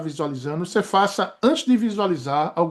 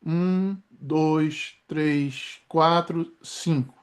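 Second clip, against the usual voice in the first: slow breath count; 3 semitones lower, 4 dB quieter, much slower than usual. Shown as a demonstration. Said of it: "se eu inspirar".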